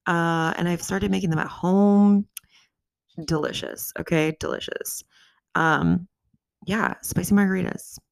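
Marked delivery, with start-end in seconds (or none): 3.2-3.9 breathy whispered praise. Real, not acted. Savouring the margaritas. 4.4-5.0 breathy whispered praise. Real, not acted. Repeats the praise.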